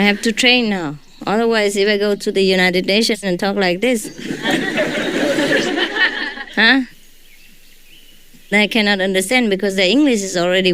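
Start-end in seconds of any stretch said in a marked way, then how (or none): 4.1-6.5 laugh. Real, not acted. Joking about the United Nations.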